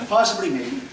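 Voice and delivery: laughing through "Possibly, maybe."; "Possibly, maybe." delivered with a laugh as the punchline; laughing quote. Retold or imitated. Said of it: "she would say".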